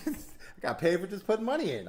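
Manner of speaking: laughing it out, pitched high; can't believe it, laughing through it. Real, not acted. Telling his podcast host about the deposit bonus, laughing.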